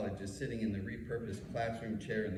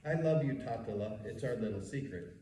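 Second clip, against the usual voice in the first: warm husky voice. Retold or imitated. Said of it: "her warm, husky voice intones".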